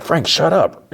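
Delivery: high-pitched, exasperated telling-off; irritated, pitch jumping up. Retold or imitated. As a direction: shut him up in mock exasperation. Irritated man silences his companion.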